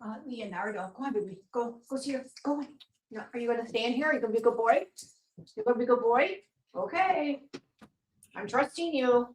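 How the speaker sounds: soft, quiet coaxing to a dog; hushing a pet. Real, not acted. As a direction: coax the dog gently, hushed. Talking to dog Leonardo.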